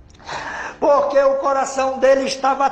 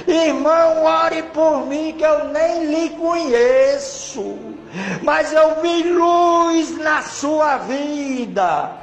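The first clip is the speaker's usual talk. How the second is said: pleading stranger; 3 semitones higher, slower than usual. Retold or imitated. Man begging for prayer.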